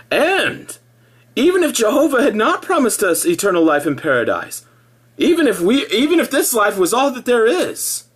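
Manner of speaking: high, bright mock-believer voice; mock cheerful witness. Mocking a Witness's forced cheer, high sing-song. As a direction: parody a smiling Witness, pitched well up. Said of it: "supposed to tell themselves".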